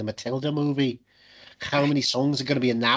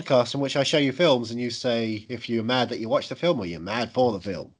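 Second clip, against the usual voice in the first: put-on Scouse podcast patter; Liverpudlian accent; 3 semitones lower than usual. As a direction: lay on a playful Liverpudlian accent. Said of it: "we're doing a Liverpudlian movie this week".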